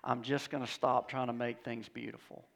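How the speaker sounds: quoting weary self. Acted.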